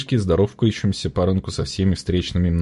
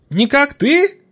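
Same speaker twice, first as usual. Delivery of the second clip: high, put-on trader's voice, amazed; a squeaky old trader in disbelief; market woman; 4 dB louder, much slower than usual. A narrator's reading. Trader squinting at the boy, amazed and high.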